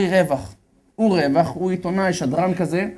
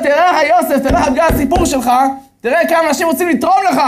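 much higher and louder, thrilled; excited live broadcast; 11 semitones higher, 7 dB louder, faster than usual. Retold or imitated. Radio host calls Yosef live, thrilled and loud. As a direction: burst out live on air. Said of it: "התקשר ליוסף הזה אונליין, בלייב".

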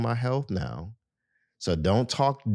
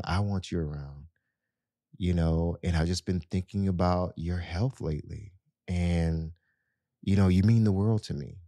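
soothing lowered voice. Shown as a demonstration. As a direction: coax him gently like a loving wife. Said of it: "there's a soothing way that you can, you know, lower your voice".

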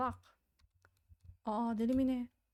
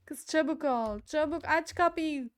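louder, urgent order; urgent call; 4 semitones higher, 4 dB louder than usual. Real, not acted. Player rushing a companion to open the door, urgent. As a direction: hurry her along urgently. Urging companion during zombie attack.

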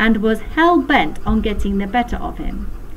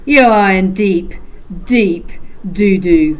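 loud stern warning; 6 dB louder than usual. A narrator's reading. Teacher threatens the boy.

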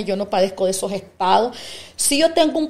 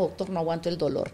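retold plea; 5 semitones lower, 9 dB quieter, faster than usual. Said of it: "lo llamo".

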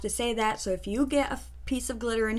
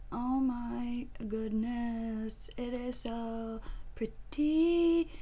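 gushing awe; 4 dB quieter, slower than usual. Real, not acted. Gushing over the glitter shade.

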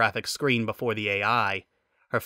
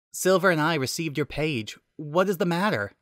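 Elias's voice; 6 semitones higher than usual. Acted.

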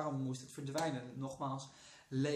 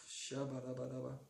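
spreken in tongen. Real, not acted. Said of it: "niet tongen spreken".

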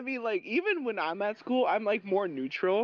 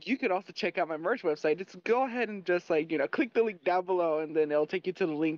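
lightly energetic YouTuber plug; imitating Sam; 2 semitones lower than usual. Teasing a friend with his merch plug, imitating him. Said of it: "I'ma try sounding like Sam, but he was more energetic".

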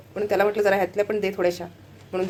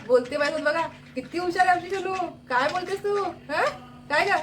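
high, cooing pet talk; 7 semitones higher than usual. Real, not acted. Owner teasing her parrot about waking her, high baby talk. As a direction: tease the bird sweetly in a high voice.

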